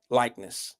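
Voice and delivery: words slurred around a retainer; wearing a retainer. Real, not acted. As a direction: talk through a mouth retainer. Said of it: "I got this retainer in and I just can't get certain".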